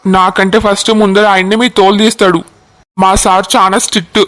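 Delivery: a cop calmly refusing to be scared; lightly voiced constable, measured and firm; steady police constable. Constable explains the strict DGP.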